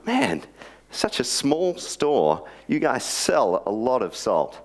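a high, drawn-out amazed "Man" from the customer. Acted. Customer marvelling at the shelves, amazed. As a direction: sound bowled over by all the salt.

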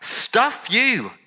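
high, final stuff you; angry dismissal repeated. Retold or imitated. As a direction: toss it off in disgust. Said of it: "we expect God to say".

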